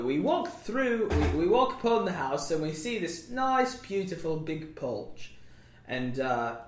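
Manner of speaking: put-on British accent. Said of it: "I'm not British anymore".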